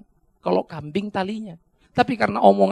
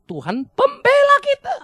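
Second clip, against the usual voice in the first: loud proclamation; 6 dB louder than usual. Real, not acted. Preacher proclaims.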